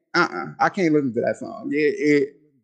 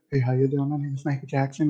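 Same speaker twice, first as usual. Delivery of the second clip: a hint of a soft, quieter pop singer's voice; 3 semitones lower, 6 dB quieter than usual. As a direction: say it softly, the way she hears him. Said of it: "No, he sounds like this".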